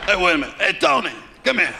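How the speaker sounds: lightly voiced Italian mobster; Mafia accent. Mobster calls Tony over to watch, light Mafia accent. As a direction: call over a buddy, mild Mafia accent. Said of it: "interesting Mafia accent".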